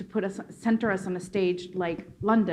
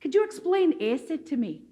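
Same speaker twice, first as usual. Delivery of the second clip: imitated Scottish lilt, pitched up; Scottish accent; 5 semitones higher than usual. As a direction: ask like a curious Scot, in a put-on Scottish accent. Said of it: "a Scottish accent".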